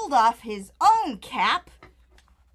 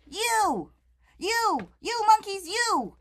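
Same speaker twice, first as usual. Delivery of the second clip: higher, scolding the monkeys; scolding shout; 9 semitones higher than usual. Acted. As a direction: wag a finger and scold. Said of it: "shouting a, shaking a finger".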